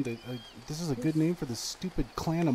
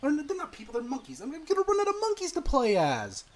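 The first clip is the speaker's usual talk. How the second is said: high-pitched wail of dismay; distressed whining; 9 semitones higher than usual. Real, not acted. Player running out of monkeys, distressed.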